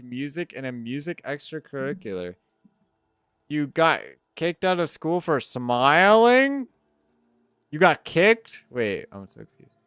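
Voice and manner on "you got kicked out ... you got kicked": higher, slower, incredulous question; surprised disbelief. Real, not acted. Streamer reading chat's story, higher and slower in disbelief. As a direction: repeat it back in disbelief.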